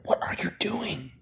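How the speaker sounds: slow, high stage whisper. Acted. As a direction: whisper it insistently, drawing out the words. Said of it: "I'm whispering".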